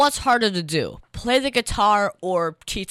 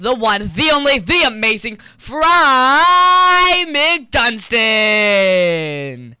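slow, loud showman introduction; ringmaster; 3 semitones higher, 8 dB louder, much slower than usual. Acted. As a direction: build it up like a ringmaster. Introducing the guest.

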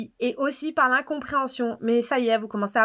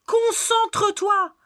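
scolding; 8 semitones higher, much slower than usual. Acted. Critic scolding James Bond to focus, slow high scold. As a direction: drag it out like scolding a pupil. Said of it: "Ouais, je suis énervée".

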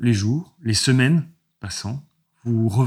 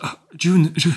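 thin little voice; 6 semitones higher than usual. Acted. GM voices Hélène.

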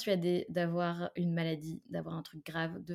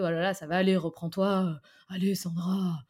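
pep talk; 7 dB louder than usual. Retold or imitated. Retold entourage cheering her up.

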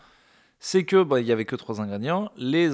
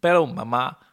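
put-on louder, whining Spanish-accent kid; 6 semitones higher, 4 dB louder than usual. Mexican kid whining to his mother about food, Spanish accent. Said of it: "j'ai appris encore un autre accent".

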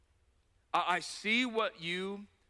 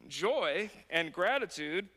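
laughing at himself; slower than usual. Real, not acted.

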